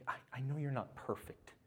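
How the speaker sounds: soft, tender, partly whispered reassurance; tender voice of God. Acted. God speaking lovingly to imperfect children, soft and tender. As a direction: speak God's words gently, close and soft. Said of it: "He's like".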